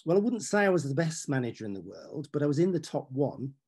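put-on whining Midlands accent; Brian Clough voice. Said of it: "in that distinctive whining Midlands voice of his".

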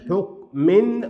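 حكم split slowly, ending in "-min"; high, drawn-out حكم with an "-in" ending; tanween with kasra. Shown as a demonstration. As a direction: sound out "huk... min" for حكم. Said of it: "وبالكسر".

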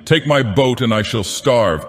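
high, impassioned pleading; passionate cry. A narrator's reading. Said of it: "cried the fisherman as passionately".

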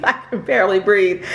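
laughing it out, a bit fast. Real, not acted. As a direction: giggle through the words. Laughs at own breathlessness.

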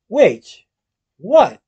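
jolted out of his thanks; shocked cry. Acted. Willie reacting to the rivals' insult, shocked. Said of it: "Willie cried".

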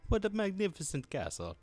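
high put-on girly voice; girl voice. Player reading game dialogue on arriving at the castle, high girl voice. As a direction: lift it into a mock-dainty falsetto. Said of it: "this is my girl voice".

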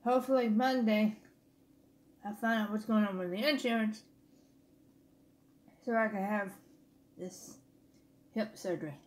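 talking with food in mouth; words muffled by chewing; chewing while talking. Real, not acted. Seen 0: Takes bite before; lips work, fork at mouth while talking.

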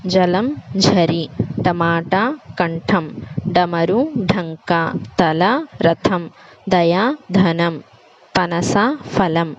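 slow, careful pairs of plain and aspirated sounds, as in ఖగం against కడవ; teacher demonstrating aspirated versus unaspirated consonants; careful contrast reading. Shown as a demonstration. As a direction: read each word slowly so the breathy ఘ in ఘటం and ఛ in ఛత్రం stand out. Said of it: "పై పదాలలో అక్షరాల తేడాలను గమనించారు కదా".

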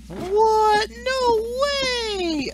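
high, loud fake astonishment; mock surprise. Gamer hamming up shock at a void charm, high and loud. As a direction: gasp it out like a shocked fan. Mock reaction to own gameplay.

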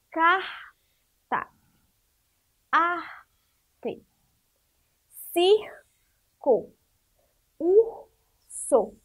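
"carta, arte, circo, urso" with the syllable-final R drawn out as a breath; R final da sílaba. Shown as a demonstration. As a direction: break each word after the aspirated R: "carta, arte, circo, urso". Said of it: "como o som da palavra fica diferente". ("carta, arte, circo, urso" com o R soprado e alongado, sílaba por sílaba)

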